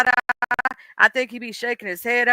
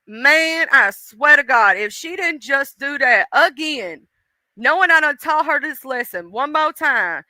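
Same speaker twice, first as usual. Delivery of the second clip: exasperated God; 3 semitones higher than usual. Acted. God complaining to Jesus about her, exasperated. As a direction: stretch it out, fed up with her. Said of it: "this is Jesus and God having a conversation".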